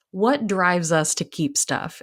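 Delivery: slow, dry mock-easy question; sarcastic. Real, not acted. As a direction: ask it slowly, tongue in cheek. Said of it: "And I'm being sarcastic".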